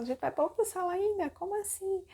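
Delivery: high-pitched, quick disbelief, imitated; acted-out dismayed questioning; incredulous protest. Patient hearing she must change rooms, high incredulous protest.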